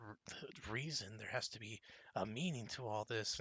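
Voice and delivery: low, soft, searching for reasons; brooding mutter. Acted. Aldrich brooding aloud to the group, low and soft. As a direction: say it softly to yourself. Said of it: "Aldrich's like".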